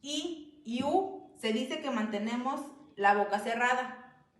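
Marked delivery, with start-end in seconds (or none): 0.0-1.3 I y U said slowly, lips kept closed; vowels sounded out. Shown as a demonstration. Teacher demonstrating closed vowels I and U. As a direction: draw out I and U slowly. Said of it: "Cuando decimos".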